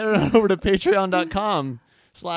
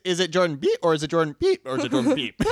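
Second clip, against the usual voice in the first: laughing; 5 semitones higher than usual. Real, not acted. Joking about censoring names.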